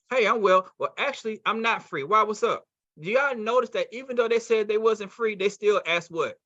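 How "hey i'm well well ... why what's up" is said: lightly voiced prospect, higher pitch; reply with a touch of hurried excitement; excited, hurried prospect. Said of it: "they're gonna be the same way".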